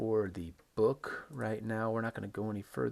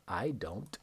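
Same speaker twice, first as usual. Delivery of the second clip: "I don't" said with a falling tune. Shown as a demonstration. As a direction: let "I don't" drop down at the end. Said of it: "It goes down".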